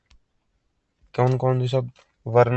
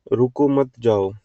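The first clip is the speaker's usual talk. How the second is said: louder, slow "रुको मत जाओ"; pause-marked reading; 5 dB louder, slower than usual. Shown as a demonstration. Teacher showing how punctuation changes meaning, slow demonstration. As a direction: read "रुको मत जाओ" slowly and loudly. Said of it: "कितना मतलब बदल जाता है विराम लगने से".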